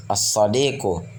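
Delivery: As-sadiqu with a doubled s and no l; lam left silent. Shown as a demonstration. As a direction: hold the s of As-sadiqu in place of the lam. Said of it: "tidak dibaca alif lam".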